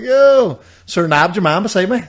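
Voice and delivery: high, loud "Yo!" shouted across the crowd; calling out. Retold or imitated. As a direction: yell it out to flag someone down. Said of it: "and I was like".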